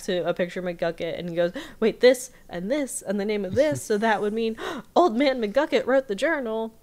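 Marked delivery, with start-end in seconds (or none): 1.8-6.7 dawning realization. Retold or imitated. Dipper's realization with gasp.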